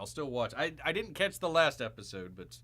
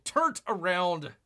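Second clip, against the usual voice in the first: slow emphatic repeat; 3 semitones higher, 4 dB louder, slower than usual. Shown as a demonstration. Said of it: "I'm getting all turned around".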